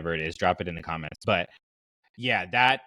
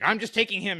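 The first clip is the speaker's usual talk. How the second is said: high, quick mock robot-officer quote; a high, playful put-on voice for the droid; lightly hammed-up high character voice; Kalani voice; 12 semitones higher, faster than usual. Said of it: "Kalani just, like, he, he's like".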